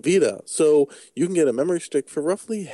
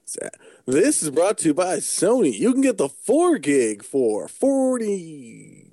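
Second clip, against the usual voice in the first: ad read; 3 semitones higher than usual. Pretend. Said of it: "Sony is paying for this ad space".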